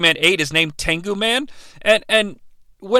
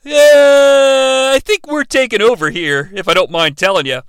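Ivan Ooze voice; 4 semitones higher than usual. Acted. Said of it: "Ivan Ooze decides".

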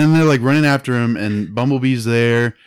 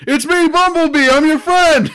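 much higher, louder cartoonish robot voice; mock Bumblebee voice; 8 dB louder than usual. Host mocking Bumblebee's cheesy reveal to Optimus, high cartoon voice. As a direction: overdo a cheesy heartfelt reveal. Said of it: "Like, in his voice, his actual voice".

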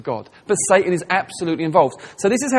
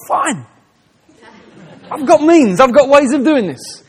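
higher and louder, amused with a laugh; God's knowing reply; 8 semitones higher, 8 dB louder than usual. Retold or imitated. God answering the church's prayer, with an amused knowing laugh. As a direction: play it like a wry all-knowing answer. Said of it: "God's like".

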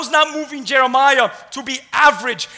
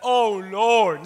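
drawn-out, heartfelt plea; crying out to the Lord. Shown as a demonstration. Preacher shows how one cries to the Lord, pleading. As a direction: stretch it into a weighty appeal. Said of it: "cried out to the Lord like that".

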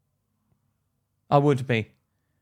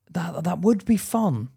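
whisper; 5 semitones higher, slower than usual. Real, not acted. Secretly admitting yachts appeal.

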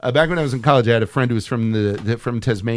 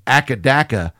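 mock Australian mispronunciation. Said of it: "that's how they say it in Australia".

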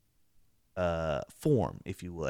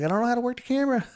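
retold panic; 3 dB louder, much faster than usual. Panicked friend during ghost encounter.

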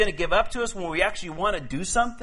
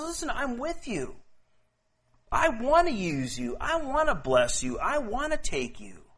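comforting Lord; 5 semitones higher than usual. Acted. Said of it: "The Lord says".

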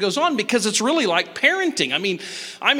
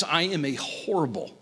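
whispered confession; 6 semitones lower, 6 dB quieter than usual. Real, not acted. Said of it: "confessing in a whisper".

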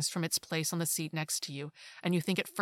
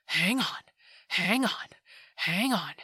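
tight high voice; 4 dB louder than usual. A narrator's reading. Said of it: "in a tight, high voice".

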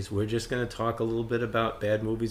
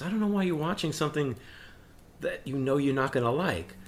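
slightly higher, baffled daughter imitation; lightly voiced daughter; 4 semitones higher than usual. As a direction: lightly mimic a daughter's puzzled complaint. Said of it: "She goes".

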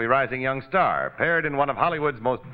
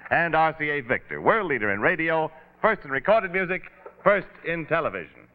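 brisk radio sponsor read; old radio announcer; 2 semitones higher than usual. Acted. Closing credits read.

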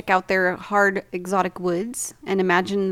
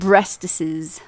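whisper; 3 semitones lower than usual. Acted. Whispered sexy word.

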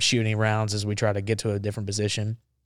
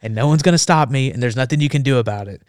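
louder retold threat; posturing; 2 semitones higher, 5 dB louder than usual. Marine threatening to abandon the reporter, forceful posturing. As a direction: lay down an ultimatum, brooking no argument. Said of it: "I'm, like, posturing".

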